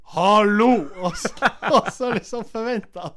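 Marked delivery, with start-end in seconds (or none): 0.1-0.7 loud call, higher; yelling hello to interrupt; shouting out. Retold or imitated. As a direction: call out round a corner. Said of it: "så roper du".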